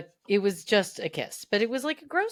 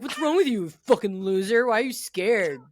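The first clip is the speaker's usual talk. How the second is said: loud, raised-pitch mock scolding; exasperated, playful telling-off; mock berating; 5 dB louder than usual. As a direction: lay into your younger self, in jest. Mock-berating her teenage self.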